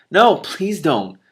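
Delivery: high, slow, exasperated begging; mock plea. Cimmerian to Telemaine, slow exasperated plea. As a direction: drag out the plea in dismay. Pleading reply in scene.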